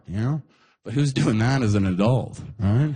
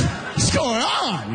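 confused; 9 semitones higher, much slower than usual. Retold or imitated. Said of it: "I was".

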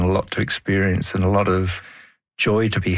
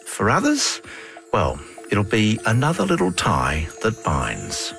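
reflective documentary narration; unhurried documentary voice; nature documentary; 2 semitones higher than usual. Acted. Host's reflective closing narration.

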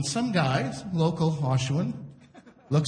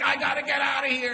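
mock wife yelling; 6 semitones higher than usual. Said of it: "I see a man and a woman yelling".

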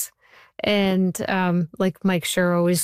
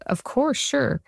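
high, eager yes; chirpy yes to dad; mock eager reply to a scary dad; eager agreement; 6 semitones higher, slower than usual.

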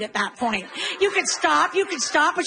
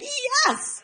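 gleeful yes; 11 semitones higher than usual. Acted. Mom's triumphant reaction.

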